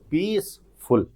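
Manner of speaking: पीसफुल split in two, पीस then फुल; two separate syllables. Shown as a demonstration. Teacher shows two vowel sounds, पीसफुल broken into पीस and फुल. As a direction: say पीसफुल as two beats with a gap between. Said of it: "इसको बोलने आते हैं तो दो vowel sound".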